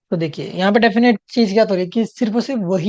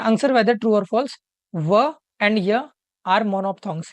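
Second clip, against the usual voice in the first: slow question read-out; much slower than usual. Shown as a demonstration. Teacher slowly reading the exam question to the class. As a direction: read each word slowly and clearly. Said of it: "reading the question slowly aloud".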